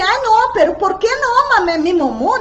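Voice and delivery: high mock protest; imitating a doubter. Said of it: "muchas personas aquí dicen".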